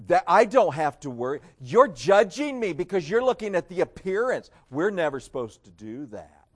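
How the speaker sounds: loud, put-on defensiveness; mock indignant protest. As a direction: imitate someone objecting to being judged. Mimicking a defensive believer's protest.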